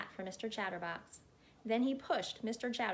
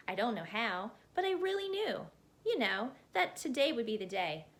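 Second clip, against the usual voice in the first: lightly voiced chatterbox; 3 semitones higher than usual. Mister Chatterbox rambling at the hat maker, lightly voiced chatterbox. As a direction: babble on breathlessly, barely pausing, as a chatty little man.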